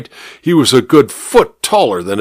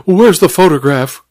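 high urgent cry; cried out; 6 semitones higher than usual. A narrator's reading. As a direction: demand it urgently. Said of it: "cried the housemaid".

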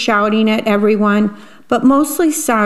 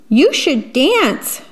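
high, drawn-out singsong invitation; encouraging storybook porcupine; 5 semitones higher, slower than usual. Acted. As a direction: stretch it out high to tempt him. Porcupine urging Jim to dance.

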